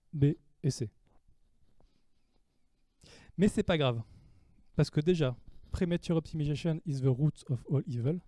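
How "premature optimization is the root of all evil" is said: English quote in a light French accent. Shown as a demonstration. Lecturer quoting an English saying to students, in French-accented English. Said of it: "Désolé pour mon accent anglais".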